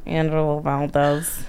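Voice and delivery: slow drawn-out fake New York accent on the name; mock fake New York accent. Mocking a character's fake New York accent, slowly. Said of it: "I could do that for an hour".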